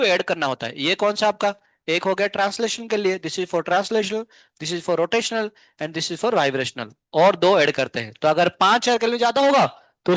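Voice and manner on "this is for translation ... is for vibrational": slowly spelled out for notes; slow dictation. Shown as a demonstration. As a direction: dictate each word slowly so they can write. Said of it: "slow dictation of labels".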